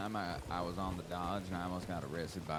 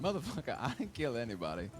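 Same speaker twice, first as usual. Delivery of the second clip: retold outburst; 5 semitones higher than usual. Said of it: "I just completely dropped my accent".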